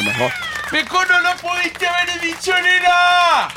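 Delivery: squeals it way up high, then shouts; over-the-top delighted cheer; excited high shout. Real, not acted. Emphatic agreement, mock exclamation.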